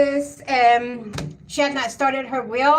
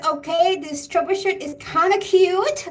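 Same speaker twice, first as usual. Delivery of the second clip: imitating daughter; 3 semitones higher than usual. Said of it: "That's the way she would say it".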